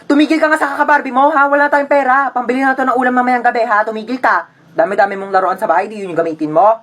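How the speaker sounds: mock-stern mom telling a child off; exasperated parent's rebuke; scolding mother. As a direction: scold in a quick rush. Mother scolds child wanting Barbie.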